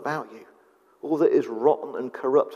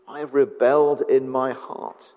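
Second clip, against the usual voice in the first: voiceless whispered confession. Acted. Preacher whispering a sinner's confession to the congregation. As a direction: breathe it out with no voice.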